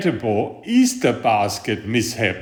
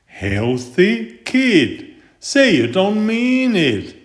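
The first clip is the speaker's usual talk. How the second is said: high, pleading wail; a hammed-up wail of despair; 8 semitones higher, slower than usual. A narrator's reading. The tooth begging Stuart, mock wail. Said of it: "wailed the tooth".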